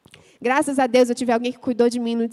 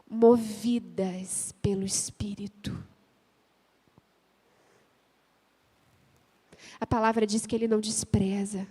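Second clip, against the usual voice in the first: sussurrado e lento; sussurro; 3 semitones lower, 3 dB quieter than usual. Acted. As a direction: sussurre com reverência. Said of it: "sussurra na pregação". (sussurro reverente)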